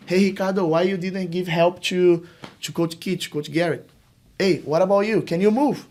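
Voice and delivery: high, loud sideline instruction; coaching call. Retold or imitated. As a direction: shout guidance to the players. Coach correcting players loudly.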